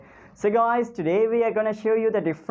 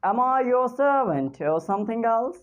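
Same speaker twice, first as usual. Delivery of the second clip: English accent; 5 semitones higher than usual. Shown as a demonstration. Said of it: "speak in England accent".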